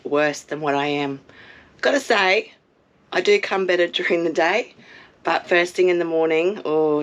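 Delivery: hoarse, croaky sick voice. Real, not acted. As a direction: talk through a sore, croaky throat. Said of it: "even if I do sound like this".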